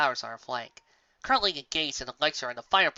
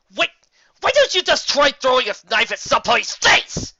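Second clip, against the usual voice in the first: sarcastic; 10 semitones higher, 10 dB louder than usual. A narrator's reading. Sarcastic exasperated retort.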